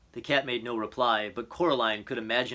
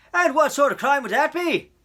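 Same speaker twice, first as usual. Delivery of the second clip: loud officer with a smile in his voice; gruff, amused policeman; 11 dB louder than usual. A narrator's reading. Policeman questions Coraline about her crime report, loud, amused. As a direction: humor the child in a booming gruff voice. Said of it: "could hear the smile in his voice".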